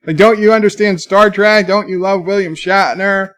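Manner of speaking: mildly exasperated appeal; retold pleading. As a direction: plead to be understood, retelling it. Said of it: "I was trying".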